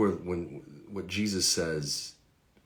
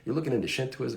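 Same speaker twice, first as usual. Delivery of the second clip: imitating a Georgia roommate's southern accent, higher; 7 semitones higher, faster than usual. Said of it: "hence the southern accent".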